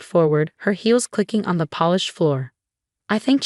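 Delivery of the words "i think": raised pitch, only mildly projected; said loudly. A narrator's reading. Aunt Sarah steps in to end the party, mildly loud. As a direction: lift the voice to take the floor. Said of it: "she said loudly".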